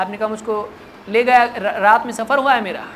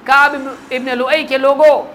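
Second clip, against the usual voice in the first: calling out; 3 semitones higher, 4 dB louder than usual. Acted. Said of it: "اس نے پکار کے کہا".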